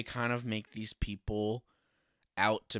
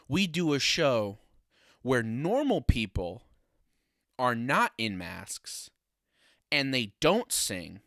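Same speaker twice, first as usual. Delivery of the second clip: building pitch; 4 semitones higher, 5 dB louder than usual. Retold or imitated. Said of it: "another executive at Fox across the table goes".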